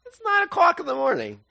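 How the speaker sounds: mock protest. Peter protesting that they are not drunk, high mock protest.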